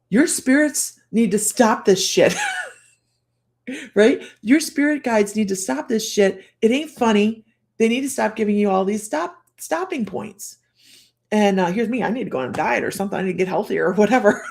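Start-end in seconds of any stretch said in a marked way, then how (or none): 0.1-2.3 slow, emphatic mock scolding; pissed-off friend imitation. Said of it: "she's pissed off". 4.4-10.6 emphatic, mildly indignant retold rant; pissed-off friend imitation. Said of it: "she's pissed off".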